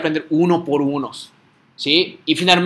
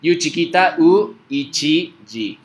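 slow, piece by piece with gaps; spelling out; 2 semitones higher, slower than usual. Shown as a demonstration. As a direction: spell it out one sound at a time. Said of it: "cómo escribe yuichiji".

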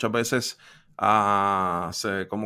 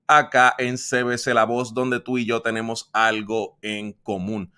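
loud, upbeat radio host voice over music; radio announcer intro; 3 dB louder than usual. Acted. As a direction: sell the segment like a radio host. Host opens radio segment. (presentador de radio entusiasta y fuerte)

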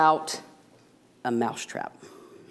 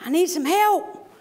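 much higher squeaky mouse voice; pleading mouse; 14 semitones higher than usual. Acted. Mouse begging the cow for help, high squeaky plea. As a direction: squeak it out fast and desperate. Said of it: "And he says".

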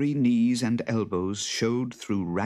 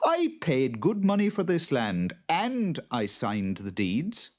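indignant farmer; 8 semitones higher than usual. A narrator's reading. Farmer argues for his land.

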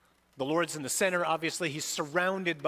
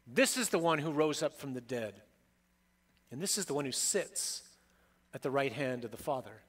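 preaching as Christ. Acted. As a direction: build a litany of titles, each hammered. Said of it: "he says".

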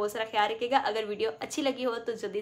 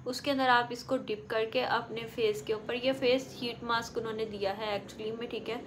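speaking with sheet mask on face; talking while applying sheet mask; 3 dB quieter than usual. Real, not acted. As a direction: wet mask covering face, mouth free. Seen 0: Sheet held before face, then worn on face from 5.1s.

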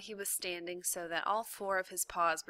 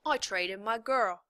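gruff prisoner; 3 semitones higher, 6 dB louder than usual. A narrator's reading. Prisoner confesses.

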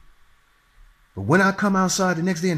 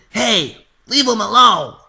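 yelled warning; 5 semitones higher, 8 dB louder, slower than usual. Retold or imitated. Speaker yells at the guy.

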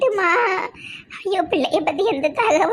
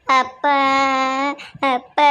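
calling out; 4 semitones lower, slower than usual. Acted. Calling out to dying father.

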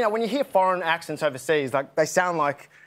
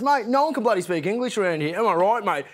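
exasperated Aussie bloke, pitched higher; fed-up Aussie; 4 semitones higher than usual. Acted. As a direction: complain in a broad, fed-up Australian accent. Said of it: "Till he gets so fed up".

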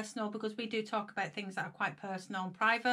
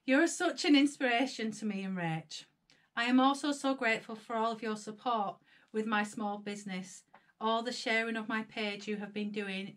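choked-up reading. Real, not acted. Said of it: "read through it with a quirky blooming voice".

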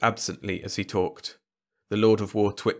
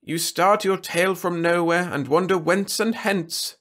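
lordly, lofty king voice; haughty ruler; 9 semitones higher than usual. A narrator's reading. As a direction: talk down from the throne. Trescu voiced.

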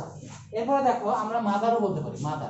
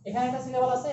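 higher repeat; 3 semitones higher, faster than usual. Shown as a demonstration.

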